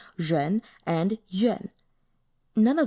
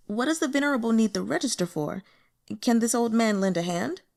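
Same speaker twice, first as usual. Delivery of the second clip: fawning; 3 semitones higher, faster than usual. Acted. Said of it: "said with a fawning smile".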